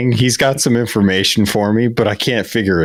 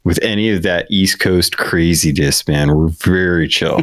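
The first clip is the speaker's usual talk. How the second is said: put-on California surfer accent. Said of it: "your Californian accent".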